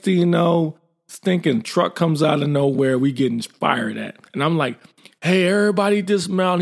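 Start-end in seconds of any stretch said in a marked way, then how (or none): 5.2-6.6 high, urgent call to dismount; shouted order. Retold or imitated. Master sergeant ordering his team out of the truck, shouting. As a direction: yell the order over gunfire.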